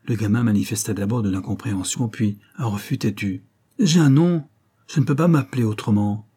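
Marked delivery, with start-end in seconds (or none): 3.8-6.3 loud, high protesting cry. Acted. The boy refuses his new name, crying out loud and high. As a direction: burst out in stubborn refusal. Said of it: "s'écria-t-il".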